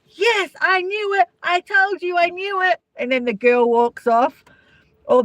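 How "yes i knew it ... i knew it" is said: higher, gloating cheer; mock triumphant. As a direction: imitate a man punching the air in victory. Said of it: "they're either really happy".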